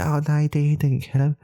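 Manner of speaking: high, pleading mock denial; beta's protest. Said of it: "like, like a beta".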